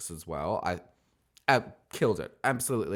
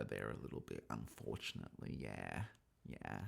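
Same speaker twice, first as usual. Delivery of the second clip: quiet; 12 semitones lower, 16 dB quieter than usual. Real, not acted. Trails off into a disappointed mutter.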